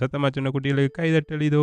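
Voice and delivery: high, quick call for applause; rapid, high-pitched praise for little ones; cheering announcement. Real, not acted. Presenter announces applause for the children.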